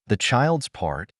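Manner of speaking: slow, sarcastic echo of her words. Acted. Husband mocking his wife's plea, slow and sarcastic. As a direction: throw her words back with scorn. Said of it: "Eric's voice was full of sarcasm".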